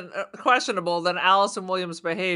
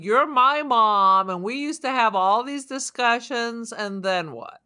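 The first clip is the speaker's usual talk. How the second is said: jealous robot. Retold or imitated. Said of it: "it was like she was jealous".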